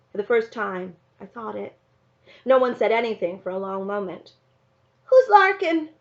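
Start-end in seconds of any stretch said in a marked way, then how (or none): 5.0-5.9 high, loud sudden question; surprised question. Acted. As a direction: blurt it out in surprise. Little brother's sudden question.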